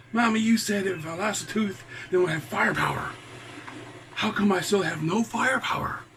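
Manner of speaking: a confused little dragon questioning mama. A narrator's reading. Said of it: "Smokey was confused".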